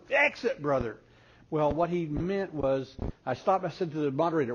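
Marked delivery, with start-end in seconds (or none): 0.1-1.0 mock yell.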